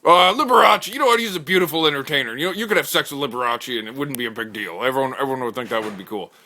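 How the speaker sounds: high, loud opening then settling; a guy pitching Liberace to the table, high and loud start; eager bro pitch. Acted. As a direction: pitch it like it's no big deal.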